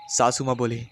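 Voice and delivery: ordinary delivery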